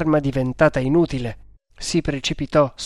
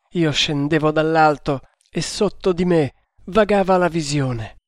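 feverish rambling, slightly lifted; mildly raised, dreamy raving; raised delirious voice. Acted. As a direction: rave about a vision, lovesick and wounded. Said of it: "proseguì a voce più alta".

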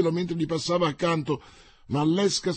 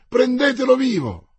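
shouted order; 10 semitones higher, 7 dB louder than usual. A narrator's reading.

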